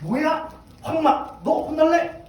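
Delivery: acted indignant scolding; angry king. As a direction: snap back like an offended king. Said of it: "우시야 왕이 화가 났어요".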